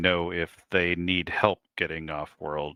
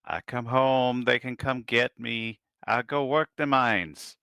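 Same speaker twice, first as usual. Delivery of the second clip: put-on higher pleading young man; pleading son; 5 semitones higher than usual. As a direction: beg your mother to let you go. Son pleads with his mother.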